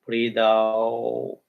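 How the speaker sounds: even, measured breathing cues with short pauses; level, rhythmic practice demonstration; continuous breathing count. Shown as a demonstration. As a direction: pace it like steady breaths in and out. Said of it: "continuously like this".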